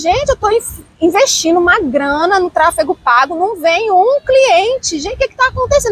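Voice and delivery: high-pitched retold desperation; recounting a panicked complaint, pitch climbing; desperate. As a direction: plead in rising exasperated disbelief. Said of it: "eu ficava desesperada".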